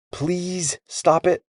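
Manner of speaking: high, very slow, reluctant please; grudging politeness. A narrator's reading. Boy gives in to Pip, grudgingly polite. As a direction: force out a drawn-out polite request. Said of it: "and he slumped".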